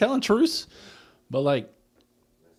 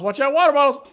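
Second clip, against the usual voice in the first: mocking Sammy, higher; 9 dB louder than usual. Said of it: "but it's".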